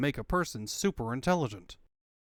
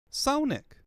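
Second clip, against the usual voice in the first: higher, calling for Sonic; higher call for help; 10 semitones higher, 3 dB louder than usual. Acted. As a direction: call out to the hero.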